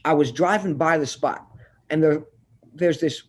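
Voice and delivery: talking around chewing gum. Real, not acted. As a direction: chew gum while you talk. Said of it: "I got gum in my mouth".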